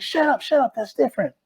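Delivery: high, quick mock brush-off; dismissive retort. Teammates shooting down the speaker's boast, high mock brush-off. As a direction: wave him off, half laughing. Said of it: "everyone was like".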